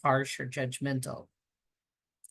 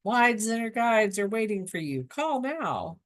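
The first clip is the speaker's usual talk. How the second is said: hammy TV ad announcer; infomercial voice; 4 semitones higher than usual. Pretend. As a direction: sell it like a late-night ad. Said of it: "sound like an infomercial".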